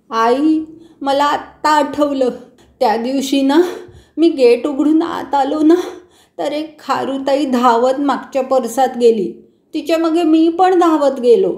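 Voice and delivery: put-on sheepish little boy telling his mother the whole story; child confessing.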